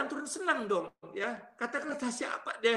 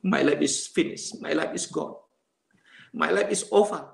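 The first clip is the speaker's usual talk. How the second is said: despairing; 6 semitones lower, 4 dB louder than usual. Retold or imitated. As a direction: pronounce each sentence as a heavy verdict. Despairing words to himself, retold.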